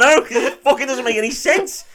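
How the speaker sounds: high, loud exasperated outburst with laughter in it; worked-up anger. Real, not acted. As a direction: burst out in comic outrage. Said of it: "You're getting so angry already".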